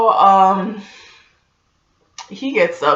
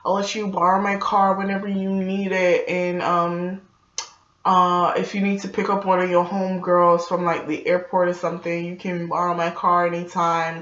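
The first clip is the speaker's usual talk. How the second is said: coaxing suitor. Retold or imitated. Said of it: "he's like".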